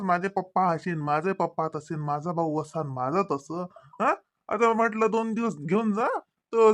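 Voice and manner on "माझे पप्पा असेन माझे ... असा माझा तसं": lower, sing-song mimicry of her boasting; mock her bragging in a lower voice; sarcastic imitation, voice dropped low; mocking quote. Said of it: "लय पहिले तर लय हे करत".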